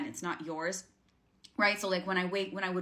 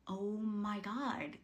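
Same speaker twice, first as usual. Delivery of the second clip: slow, hushed amazement; drawn-out, quiet retold astonishment; dawning realisation; 7 dB quieter, much slower than usual. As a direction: let it sink in slowly and softly. Retold moment of sudden realisation.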